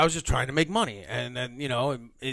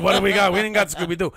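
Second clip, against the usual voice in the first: alarmed protest; 5 semitones higher, 5 dB louder, faster than usual. Retold or imitated. Alarmed retort to boss.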